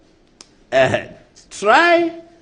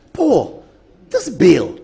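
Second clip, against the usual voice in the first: imitating Brother Fo; 3 semitones higher, 4 dB louder, much slower than usual. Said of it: "then he slashes in".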